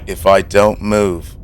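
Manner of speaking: low, dropping to a near whisper; a student frozen in class, hushing himself; hushed hiding student. Retold or imitated. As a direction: keep it very quiet so she won't notice. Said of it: "he's like".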